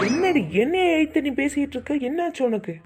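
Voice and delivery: angry. Acted. Husband yelling at wife.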